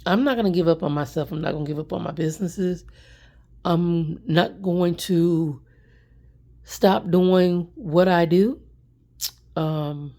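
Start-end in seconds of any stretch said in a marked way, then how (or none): 0.0-8.6 determined. Real, not acted. Vowing not to give up.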